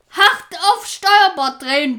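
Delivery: loud commanding order; barked order. Acted. Pirate chief ordering a turn, loud command. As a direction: snap the order at the helmsman. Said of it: "befahl er".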